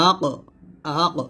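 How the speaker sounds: 'আক' with a thick back-of-tongue stop; heavy qaf ending. Shown as a demonstration. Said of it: "কফ উচ্চারণ করব". ('আক' জিহ্বার গোড়া থেকে মোটা করে)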